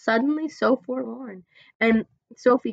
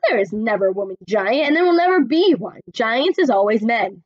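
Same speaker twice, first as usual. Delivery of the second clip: lightly voiced friendly giant, rustic; a hint of the big friendly giant talking; BFG voice; 4 dB louder than usual. BFG explains to Sophie in a lightly voiced giant manner.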